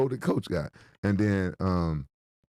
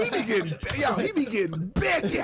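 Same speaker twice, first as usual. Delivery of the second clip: excited teasing; 7 semitones higher, slower than usual. Real, not acted. Teasing friend loudly.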